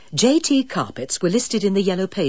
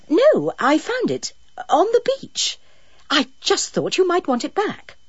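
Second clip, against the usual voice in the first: high, prim phone voice; a touch of polite pretence; lightly posh caller voice; 12 semitones higher than usual. Acted. Carol playing innocent finder.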